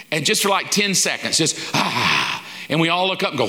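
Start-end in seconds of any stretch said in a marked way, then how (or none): 1.7-2.4 imitated sky apparition sound, a low "ah"; low "ah" noise. Preacher imitating God appearing in the sky, low "ah". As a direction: drop low on a drawn "ah". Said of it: "show up in the sky and just go".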